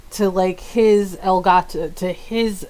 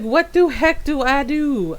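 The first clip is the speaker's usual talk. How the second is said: higher-pitched wail of retold helplessness; mock panic; 4 semitones higher than usual. Streamer recalling capture not working in O B S, mock panic. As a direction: act out being at a loss.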